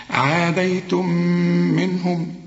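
"عاديتم منهم" met lang aangehouden neusklank op de m; idgham met ghunna. Shown as a demonstration. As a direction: hold a long humming m from "عاديتم" into "منهم". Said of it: "إدغام بغنة".

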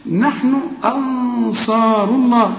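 نحن أنصار الله recited with a light hamza; thin hamza. Shown as a demonstration. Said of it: "رقق الهمزة".

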